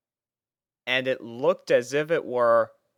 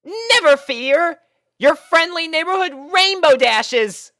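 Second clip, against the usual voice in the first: heroic catchphrase; 8 dB louder than usual. A narrator's reading. Rainbow striking a pose for the rescued hostage, heroic. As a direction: announce yourself like a superhero. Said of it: "gave off a saying".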